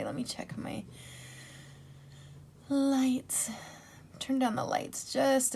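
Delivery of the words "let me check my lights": whispering. Real, not acted. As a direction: mutter it under your breath. Whispered aside about lights.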